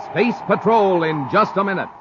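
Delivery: booming radio announcer. Acted. Announcer telling listeners the show returns, booming. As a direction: call it out like a show break.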